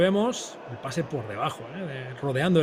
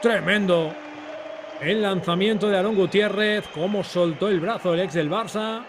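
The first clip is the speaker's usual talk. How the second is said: rising excitement on a goal; excited goal call. Real, not acted. Goal call in live commentary.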